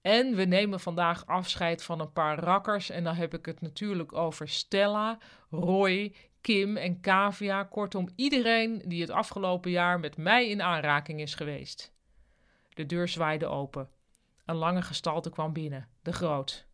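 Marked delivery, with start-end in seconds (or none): 0.0-11.9 speechmaker building to a mild crescendo; speech nearing climax. A narrator's reading. Ruud farewells his colleagues from a chair, speechifying. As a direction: roll out the names grandly, then settle. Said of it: "klank van Ruud's stem ... apotheose".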